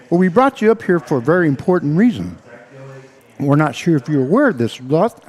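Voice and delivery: breathless, rushed words; talking while still winded; out of breath. Real, not acted. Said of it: "man, I am out of breath".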